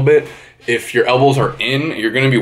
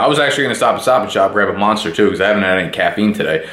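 talking fast; faster than usual. Real, not acted. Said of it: "fast I'm talking".

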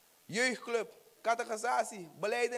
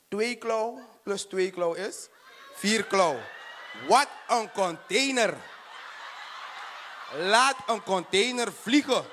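punchline shout; 4 dB louder, slower than usual. Acted. Punchline build.

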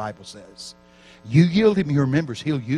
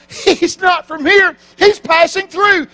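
put-on higher, slow and dreamy, as if drunk in the Spirit; dazed lady on the floor; 12 semitones higher, 7 dB louder, slower than usual. Preacher voicing the lady drunk on the floor, slow and high. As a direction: drawl it out like someone slain in the Spirit. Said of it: "the lady's on the floor going".

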